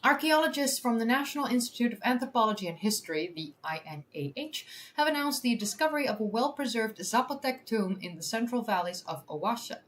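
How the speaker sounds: measured news-article reading; article read-aloud. Real, not acted. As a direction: read it out clearly for an audience.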